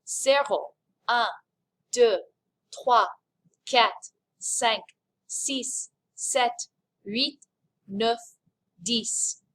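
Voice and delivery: evenly spaced French counting; count-along. Shown as a demonstration. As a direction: count "Zéro" to "dix" steadily, leaving room to join in. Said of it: "Count with me this time".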